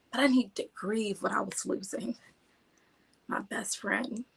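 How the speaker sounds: holding back real tears; teary-eyed. Real, not acted. Speaker grieving the loss of a grandfather, teary-eyed. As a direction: press on softly through welling tears. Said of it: "You see, I get teary-eyed".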